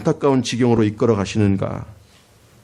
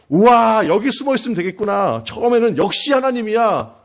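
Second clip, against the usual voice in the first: thrilled at the hiding place; delighted wow; 8 semitones higher than usual. Retold or imitated. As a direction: prophet cheering at God's provision. Elijah delighted by the reeds.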